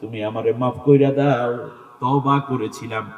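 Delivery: slow, drawn-out pleading chant; mildly plaintive, stretched begging for pardon; acted tearful plea. Worshipper begging Allah for forgiveness, mildly tearful. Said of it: "আল্লাহর কাছে কেঁদে বলবে".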